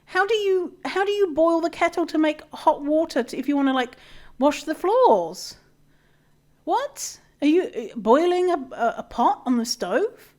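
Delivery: high, loud incredulous questions; disbelieving outburst. Retold or imitated. Baffled at people without kettles, high loud disbelief. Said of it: "And I'm like".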